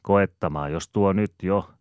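a lively character answer; Ananiaksen ääni. Acted. (Ananias vastaa Aapelille korkealla, kovalla äänellä)

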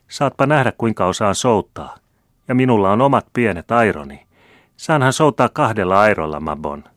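put-on a child showing off, full of glee; high, loud and eager. A narrator's reading.

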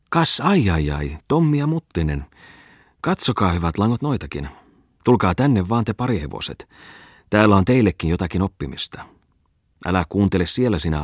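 mock the two friends with glee; gloating schoolmaster. Bungman hails the crowd.

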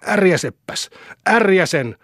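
high-pitched defiant shout. A narrator's reading. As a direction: shout back the dare. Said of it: "huusi poika".

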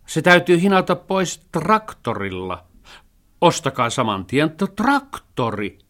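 the cat yells in exasperation; shouting cat. A narrator's reading. (raivostunut kissa huutaa)

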